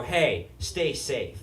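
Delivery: quiet, drawn-out farewell; low-key caring goodbye. Retold or imitated. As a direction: gently imitate a friend's sincere send-off. Retelling friends' parting words.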